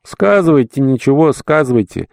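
mumbled consent. A narrator's reading. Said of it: "водя языком за щекой".

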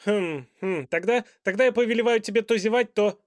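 loud, high, fast muddled command; a king tripping over his own orders; flustered king. A narrator's reading. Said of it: "Король запутался".

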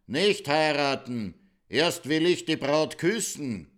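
a loud, slow, commanding call; shouting. Acted. The king bursts into the wedding hall, shouting slowly. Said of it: "Schreit der König Purzelbaum".

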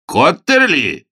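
slow, loud startled cry; excited exclamation. A narrator's reading. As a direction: cry out the name in amazement. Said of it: "вскричал Галахад".

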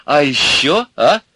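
put-on high-pitched, eager girlish delight; amused delight. A narrator's reading. Milka amused by Ivan's rant, delighted. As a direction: egg him on with glee. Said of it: "Милка опять громко засмеялась".

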